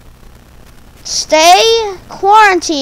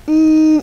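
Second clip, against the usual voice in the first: censor hum; 2 semitones higher, 3 dB louder than usual. Acted. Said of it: "I can't even call it by its own name".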